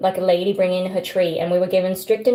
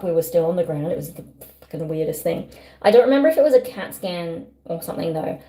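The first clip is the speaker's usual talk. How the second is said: talking around a retainer; slightly lispy with a retainer in; wearing a retainer. Real, not acted. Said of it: "this is where my speech will get a little bit trickier".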